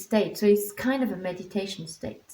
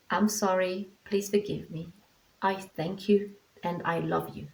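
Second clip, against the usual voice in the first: tender mantra to the dog. Shown as a demonstration. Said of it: "So it's like".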